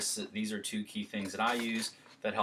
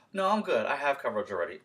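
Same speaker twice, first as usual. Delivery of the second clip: polite brush-off; 4 semitones higher, 4 dB louder, faster than usual. Shown as a demonstration. Homeowner objecting.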